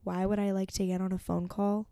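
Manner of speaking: repeating the words back in disbelief; incredulous. Retold or imitated. To a podcast host, echoing the ex-friend's text in disbelief. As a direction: let the question hang, stunned and offended. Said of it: "The disrespect that I felt".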